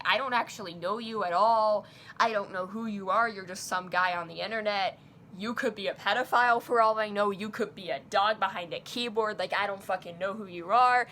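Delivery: loud, retold all-caps rant; venting outburst. Confronting an online stranger, retold angry venting. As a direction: vent it forcefully, hammering the words. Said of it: "broke down in, like, a vent".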